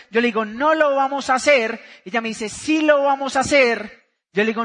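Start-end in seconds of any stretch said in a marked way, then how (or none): 0.4-1.8 firm retort; acted refusal. Husband repeats his refusal to wife, firm. 2.5-4.1 slow, emphatic retort; acted insistence. Wife presses her reluctant husband, slow and insistent.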